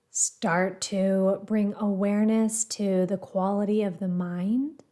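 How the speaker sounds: calm, measured guiding voice with pauses between phrases; guided meditation. Acted. Meditation teacher guiding listeners to the breath, calm and measured. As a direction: gently lead a meditation, leaving space after each phrase.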